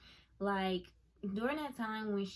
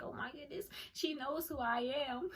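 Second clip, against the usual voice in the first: starstruck squeal; 6 semitones higher, 5 dB quieter than usual. Retold or imitated. Retelling meeting her idol.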